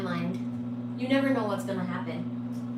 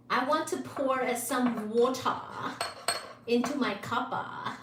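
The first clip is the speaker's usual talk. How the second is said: put-on Belgian accent; 3 dB quieter than usual. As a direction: pour and stir in a mock Belgian accent. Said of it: "I wanna do a Belgian accent".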